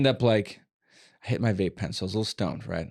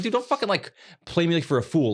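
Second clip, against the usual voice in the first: loud sharp voice; 5 semitones higher than usual. Retold or imitated. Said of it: "I'm talking like this".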